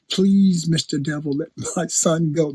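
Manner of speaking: timid, mocking plea to the devil; a meek, mock-scared little prayer. Preacher mocking timid believers begging the devil, meek plea. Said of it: "We just so timid".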